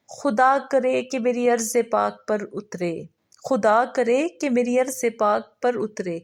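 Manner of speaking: measured, solemn recital, each line said twice; verse recitation. Acted. Teacher reciting a prayer verse for the third member, solemn.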